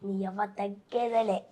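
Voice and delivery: slow, lightly voiced Pushpa punch line; Pushpa dialogue. Shown as a demonstration. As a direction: drawl it out like a swaggering hero. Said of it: "ఆ, చెప్పు". (నెమ్మదిగా Pushpa style dialogue)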